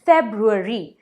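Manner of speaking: फेब्रुअरी with the first r sounded, "feb-roo-a-ree"; "फेब्रुअरी" with the broo sounded; correct February. Shown as a demonstration. Teacher models "फेब्रुअरी" for viewers, broo sounded. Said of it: "इसे हम फेब्रुअरी नहीं कहते हैं".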